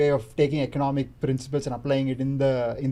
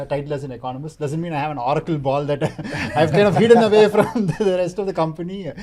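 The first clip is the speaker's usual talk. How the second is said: laughing; 5 dB louder, faster than usual. Real, not acted. Jokes about oracle ball, laughs.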